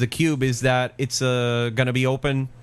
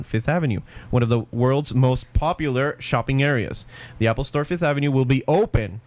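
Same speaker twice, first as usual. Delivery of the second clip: booming prize announcer. Acted. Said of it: "This is according to the press release".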